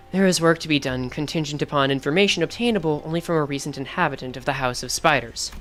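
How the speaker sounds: low, measured corporate voice; calm, cold and businesslike; cold company man. Acted. Reads the company man's lines.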